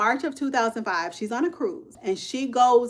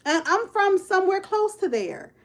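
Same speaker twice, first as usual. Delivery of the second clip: retold excitement; 8 semitones higher than usual. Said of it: "she got excited and said".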